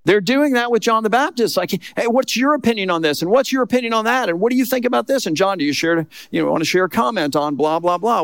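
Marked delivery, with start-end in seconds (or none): 2.0-8.2 higher, pushy reporter voice firing questions; eager reporters. Retold or imitated. Reporters crowding John with questions, eager and pushy.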